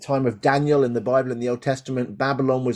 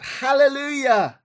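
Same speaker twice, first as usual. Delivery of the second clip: slow, higher ringing Hallelujah; joyful cry; 14 semitones higher, 4 dB louder, slower than usual. Acted. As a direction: lift it up in praise. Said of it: "they cried out".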